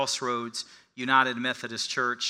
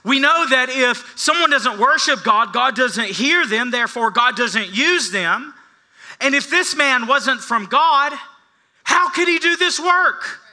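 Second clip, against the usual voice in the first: higher, louder beggar arguing his case; defiant beggar; 11 semitones higher, 9 dB louder than usual. Retold or imitated. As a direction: build to a triumphant question. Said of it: "he says".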